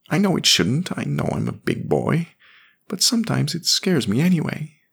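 put-on high, small boy voice; scared little boy. A narrator's reading. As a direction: admit it like a frightened child. Jamie confesses.

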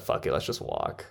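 whispered quote. Retold or imitated. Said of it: "Just said".

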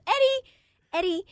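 high, unraised call of a name; not rude. Retold or imitated. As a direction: demonstrate a harmless, polite call. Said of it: "I wasn't rude".

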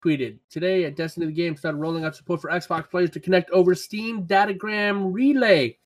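measured newsreader delivery, slowing on names; news read. Acted. Podcast host reading gaming news to listeners, newsreader style. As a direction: read the headline like a news anchor.

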